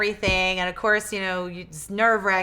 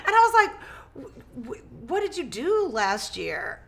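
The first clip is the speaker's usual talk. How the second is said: laughing; 5 semitones higher than usual. Real, not acted. Laughing while quoting herself.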